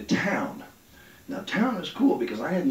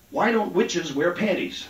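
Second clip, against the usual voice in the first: put-on kid telling joke; 3 semitones higher than usual. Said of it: "Says to me".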